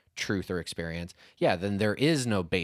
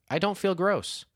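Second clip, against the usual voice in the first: imitating husband; 11 semitones higher than usual. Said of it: "You were like".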